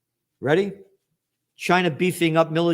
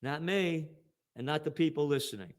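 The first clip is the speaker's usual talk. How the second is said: quiet aside; 3 semitones lower, 9 dB quieter than usual. Real, not acted. Quiet contrast after mock.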